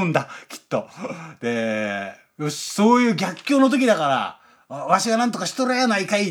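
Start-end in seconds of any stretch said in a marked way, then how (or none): 4.7-6.3 lightly imitated Kansai dialect, a bit quicker; a breezy Kansai manager, lightly put on; mock Kansai dialect. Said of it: "柔らかい関西弁で".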